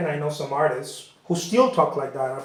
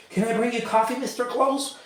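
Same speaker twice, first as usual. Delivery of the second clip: higher, eager-to-please offer; asking the famous painter, higher and eager; eager apprentice; 6 semitones higher than usual. Retold or imitated. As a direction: play the keen assistant, pitched up. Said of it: "and be like".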